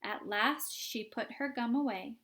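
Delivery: bouncy sung-story recitation with a steady beat; rhyming song poem. Acted. Oompa Loompas singing a warning rhyme, rhythmic. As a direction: recite it like a chant.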